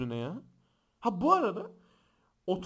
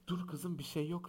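quietly acting a mother soothing her child; hushed motherly reassurance; 8 dB quieter than usual. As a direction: settle the child down softly.

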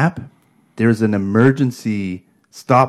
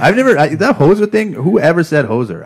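incredulous; 10 semitones higher, 6 dB louder than usual. Real, not acted. Loud incredulous protest.

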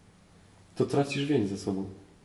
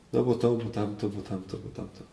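excuses fading away to near silence; mock young person's excuses, fading out; 5 dB quieter than usual. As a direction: let the excuses trail off softer and softer. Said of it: "miałem taką rozmowę z młodą osobą".

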